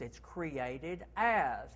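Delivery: slow, polished and refined; upscale phrasing. Shown as a demonstration. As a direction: savour it like a luxury pitch. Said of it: "That's a little bit more upscale".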